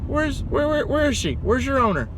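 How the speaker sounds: very high, softened pet-talk voice; talking to a cat. Retold or imitated. Pizza driver greeting a customer's cat, high pet-talk. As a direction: coo high and light, as if greeting a kitty.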